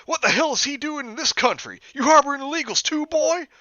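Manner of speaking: high, loud outraged redneck; ranting hick cop. Acted. Officer rants at Jeff, high and loud. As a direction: bark the accusation.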